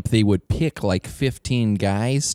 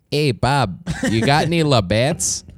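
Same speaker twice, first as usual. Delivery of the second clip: put-on Canadian accent; 3 semitones higher than usual. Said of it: "my Canadian voice".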